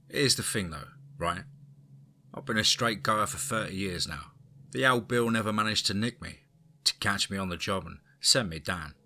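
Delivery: put-on old East End crime lord, Cockney; Cockney accent. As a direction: tell it like an ageing London gangster. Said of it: "I brought forth my Cockney".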